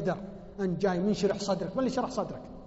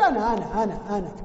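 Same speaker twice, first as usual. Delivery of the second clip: stressed أنا repeated; emphatic me; 4 dB louder than usual. Shown as a demonstration. Preacher teaching the listener to blame himself, stressing me. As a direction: lean on أنا each time. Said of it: "قل".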